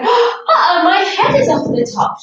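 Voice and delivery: sudden high gasp of surprise; surprised uh-oh. Real, not acted. Teacher notices her head is off screen, surprised. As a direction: caught off guard, laughing it off. Head slips out of camera frame.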